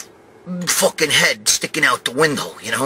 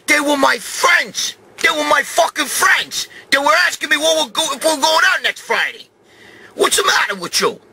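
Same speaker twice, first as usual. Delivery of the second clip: yelling at her; 11 semitones higher than usual. Retold or imitated. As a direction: blow up at her, furious. Yelling at mother-in-law in car.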